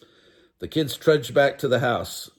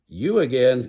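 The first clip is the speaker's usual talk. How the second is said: loud annoyed cry; angry; 5 dB louder than usual. Acted. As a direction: snap at the pest, stamping. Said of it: "stamping his foot angrily".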